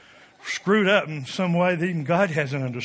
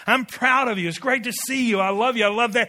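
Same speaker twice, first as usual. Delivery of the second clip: mild praise; 3 semitones higher than usual. Retold or imitated. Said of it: "Just praise people".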